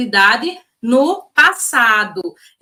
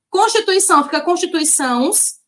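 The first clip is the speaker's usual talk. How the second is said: quizzing tone; 6 semitones higher than usual. Shown as a demonstration. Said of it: "Não, fica constituições".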